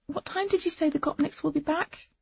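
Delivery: drowsy slurred words; sleepy slur. A narrator's reading. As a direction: slur it, half asleep. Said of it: "My voice had started to slur".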